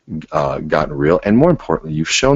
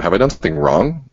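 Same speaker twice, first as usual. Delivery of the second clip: accusatory tone; 3 semitones higher than usual. Shown as a demonstration. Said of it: "Now that sounds accusatory".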